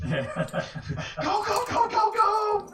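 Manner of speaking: frantic high-pitched escape cry; panicked urging. Acted. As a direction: squeal it out in comic panic. Acting out terror while fleeing.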